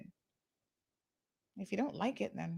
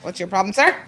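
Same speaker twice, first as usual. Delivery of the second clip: her own voice echoing the Caymanian line; imitating Caymanian accent; 8 dB louder, faster than usual. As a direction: copy the Caymanian challenge lightly. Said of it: "that Caymanian accent".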